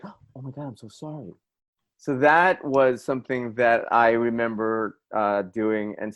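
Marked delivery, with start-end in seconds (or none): 0.0-1.3 students apologizing. Retold or imitated. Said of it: "they'd be like".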